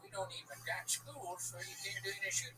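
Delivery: lightly voiced small-town redneck; a hint of a proud local showing off his town; mock-cheerful hick bragging about the gun library. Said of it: "I started talking in that voice".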